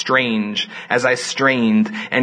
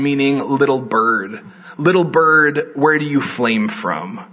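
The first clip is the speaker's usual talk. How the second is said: poetry reading. Acted. Reads poem aloud.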